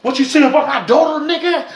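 high, laughing mock outrage; retold outraged question. Imitating Lee offended about his daughter, high and laughing. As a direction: ham up Lee's offended reply. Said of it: "He go".

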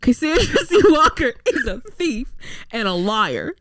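West Coast attempt sliding into Southern; unintended Southern accent. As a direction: read it out with a light mock Southern accent. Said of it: "Now you sound Southern".

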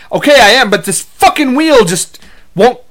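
fed up with a broken toy wheel; frustrated kid. Retold or imitated. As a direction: kid griping about a stuck wheel.

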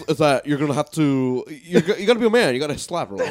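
mock Andrew Tate. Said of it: "that sound like Andrew Tate".

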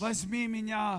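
the chocolate's plea, stretched slowly. Acted. Preacher voicing a Snickers bar calling out to the listener, slow and coaxing. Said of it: "Snickers schreien sie an".

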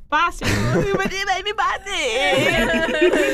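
mother threatening. Retold or imitated. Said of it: "minha mãe chegava e falava assim".

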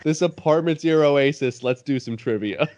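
mock announcer intro. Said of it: "that soundbite should be the intro".

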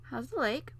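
high, loud and eager prince; excited prince. A narrator's reading. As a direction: call out with delight. Prince voiced in story.

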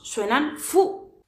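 fu, drawn out slowly. Shown as a demonstration. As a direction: say fu slowly and clearly. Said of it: "Si las unimos". (fu pronunciado despacio)

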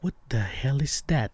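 a hushed, spooked whisper; whispered alarm. Retold or imitated. Startled driver whispering at a shadow on his hand. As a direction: whisper it as if scared to be heard. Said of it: "I'm like".

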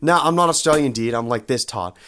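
Australian-sounding dude; Todd. Acted. Todd insists he is not Australian, Australian-sounding. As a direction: deny it, still in the Australian-like dude voice. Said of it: "why are you Australian".

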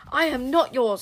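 high, loud defiant scream. Acted. Boy screaming defiance at the King Witch. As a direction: scream it back in his face. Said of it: "screamed Zar".

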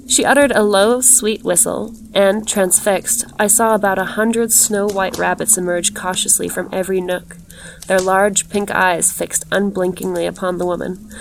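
measured, even literary reading; story narration. A narrator's reading. Narrator describing a glittering woman in green silk, measured storytelling. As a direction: read the tale aloud evenly, with care.

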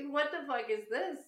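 hammed-up outrage at the son; mock furious question to her son; mock angry demand. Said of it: "it just got so escalated".

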